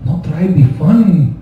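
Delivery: put-on Mexican dad accent. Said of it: "wicked accent".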